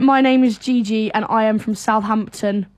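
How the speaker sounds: Southern English, every syllable spelled out; Southern English accent. Shown as a demonstration. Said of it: "do an impression of the Southern accent".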